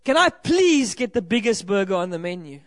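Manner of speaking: imitating a stern customer, hard stress on please; firm but not aggressive, retold order. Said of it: "in a quite stern voice".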